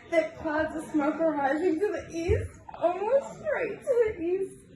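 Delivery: giggling. Real, not acted. Reader giggles through a story.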